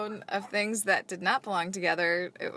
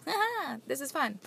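mock laugh; 6 semitones higher, 4 dB quieter than usual. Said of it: "She was just like".

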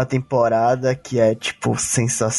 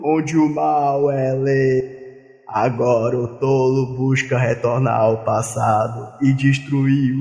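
Abu voice; slower than usual. Acted. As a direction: boom it out as the dark master. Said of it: "tem que falar com a voz do Abu".

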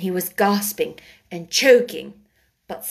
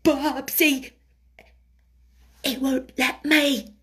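halting reply with long pauses; hesitant; 5 semitones higher, slower than usual. A narrator's reading. Nurse doubts the boy will let her, hesitating. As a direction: answer reluctantly, a little higher. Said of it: "she hesitated in a low voice".

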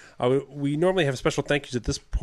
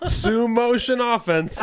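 slow drawn-out delivery; 9 semitones higher, 3 dB louder, much slower than usual. Pretend. Nickname drawn out slowly.

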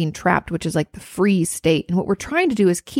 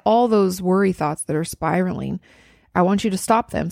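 usual speaking voice

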